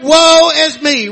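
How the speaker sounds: slow, sincere confession of woe; earnest woe. Retold or imitated. Isaiah's real humbled woe before God, slow and sincere. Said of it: "But he said".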